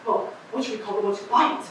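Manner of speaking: a lightly voiced raspy street eccentric rambling to passersby; raspy street oddball. Eccentric on the street corner addressing the crowd, lightly raspy. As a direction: play a scratchy-voiced crank holding court on the corner. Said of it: "You don't like my raspy voice".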